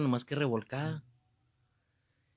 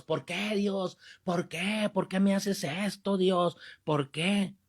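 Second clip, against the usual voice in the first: mock anguished cry; 4 semitones higher, slower than usual. People complaining to God, mock anguished cry. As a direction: imitate someone crying out a complaint to heaven. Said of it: "le gritamos a Dios".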